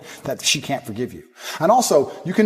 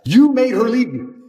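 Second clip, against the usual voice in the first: forceful accusation; 4 semitones higher than usual. Real, not acted. Pounding listeners with blame.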